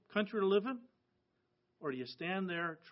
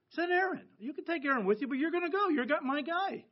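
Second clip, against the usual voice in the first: higher, louder mock voice of God; booming God voice; 10 semitones higher, 4 dB louder than usual. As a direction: boom out God's orders to a reluctant Moses. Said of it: "when God says".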